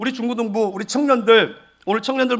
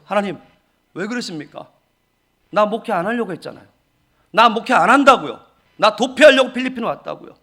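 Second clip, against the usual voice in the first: protesting to God; 3 dB louder than usual. Retold or imitated. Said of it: "그거 하나님께 따졌어요".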